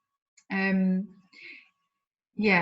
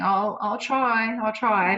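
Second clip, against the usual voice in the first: slightly higher, slow promise with a hint of childlikeness; lightly voiced childlike flames; 3 semitones higher, slower than usual. Client voicing the flames' promise to the fireman, mildly childlike. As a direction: lightly put on a child's earnestness. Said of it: "almost that childlikeness of the flames saying".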